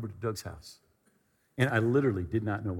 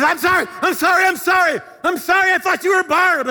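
high, panicked, shouted apology; frantic apology; 12 dB louder than usual. Retold or imitated. Roommate apologizing after the mistaken kiss, frantic shouting. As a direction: yell sorry over and over, mock panic.

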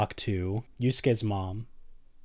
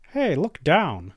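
put-on high, slow little-kid voice; squeaky pint-sized ruler, drawn out; baby voice; 7 semitones higher, 4 dB louder, slower than usual. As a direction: call up as a tiny toddler boss. Baby ruler greets Yusuke.

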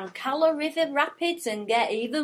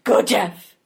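whispered cheer; 4 semitones lower than usual. Acted. Cheering someone on.

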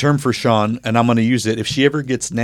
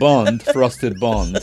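very slow, drawn-out bad British accent; mock British; much slower than usual. Cohost repeats punchline in a botched British voice. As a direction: drag it out in a failed British accent. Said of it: "It's supposed to be British".

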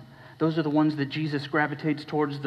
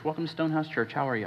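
softer, rote welcome with no energy; perfunctory greeting; 5 dB quieter, much faster than usual. Retold or imitated. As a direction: toss it off like a bored greeter on autopilot. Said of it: "keep shiny plastic Christian on our faces".

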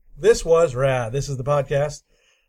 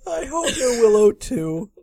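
pitched up on Willow; higher, rising take; 8 semitones higher, 3 dB louder than usual. Acted. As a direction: lift it high at the end. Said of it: "you went real method there".

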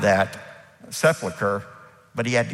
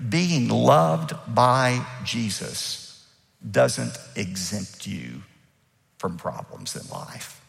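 slow emphatic; slower than usual. Shown as a demonstration. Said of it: "I point out a simple principle here".

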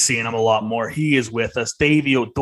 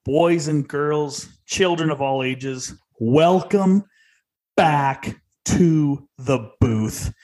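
slow, drawn-out showman welcome; ringmaster; slower than usual. Acted. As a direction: announce it like a circus ringmaster. Podcast host opening announcement.

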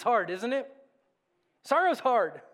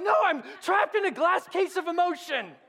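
high, loud overwrought wail, laughing; hammed-up melodramatic despair; Anchorman movie quote; 8 semitones higher, 4 dB louder than usual. Pastor quotes Anchorman to the congregation, loud mock-despairing wail. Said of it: "Will Ferrell, Anchorman".

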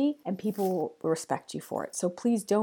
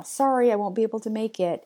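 apologetic email line; 4 dB louder than usual. Shown as a demonstration. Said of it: "I started an email".

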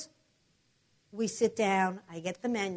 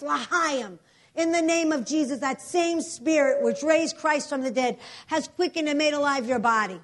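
loud, forceful rebuking of Satan; preaching prayer; 3 dB louder than usual. Retold or imitated. Pastor rebukes death over the woman on the sidewalk, forceful preaching. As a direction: command the spirit of death to leave.

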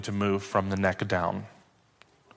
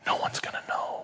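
soft promise; 7 dB quieter, faster than usual. Retold or imitated. Pastor voicing the friend's promise.

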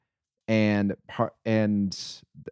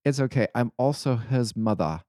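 put-on light British accent, breezy and matter-of-fact; a hint of British accent, shrugging it off; 2 semitones higher than usual. Teacher telling the shocked visitor, in a lightly put-on British accent. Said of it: "and in her British accent, she goes".

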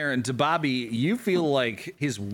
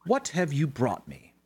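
tiefling voice; 2 semitones higher than usual. Acted. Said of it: "says the tiefling".

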